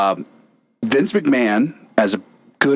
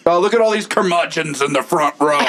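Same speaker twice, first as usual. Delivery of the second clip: heel promo taunt; 4 semitones higher than usual. Pretend. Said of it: "If I'm a heel".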